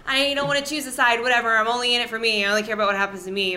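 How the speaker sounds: mock indifferent people. People refusing to choose a side, mock indifferent. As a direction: brush it off quickly, imitating the uncommitted. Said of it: "the people that are like".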